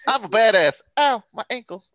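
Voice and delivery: high, loud boast then whimper; hammed-up tough guy then crybaby; mock brag and whine. Podcaster mocking Tetsuo the fake badass, high.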